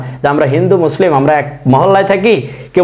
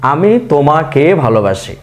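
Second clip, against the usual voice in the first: slow example sentence; 3 semitones lower, slower than usual. Shown as a demonstration. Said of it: "কে উচ্চারণ হয়েছে".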